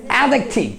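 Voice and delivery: অ্যাডজেক্টিভ softened to "AD-ek-thiv"; correct pronunciation. Shown as a demonstration. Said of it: "আসলে উচ্চারণটা কি হবে?".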